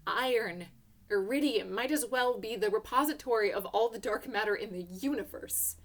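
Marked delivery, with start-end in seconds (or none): none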